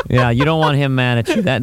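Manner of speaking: ordinary talk, nothing marked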